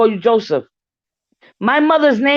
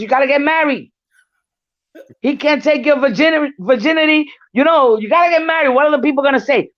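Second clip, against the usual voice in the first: mother voiced; 6 semitones higher, faster than usual. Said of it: "Mama said".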